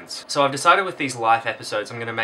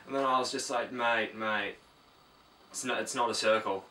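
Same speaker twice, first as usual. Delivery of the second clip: softer, rambling chatterer who won't stop talking; one-sided rambler; 4 dB quieter than usual. Acted. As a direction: drone on quietly like a clueless oversharer. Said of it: "they tend to look a lot like this".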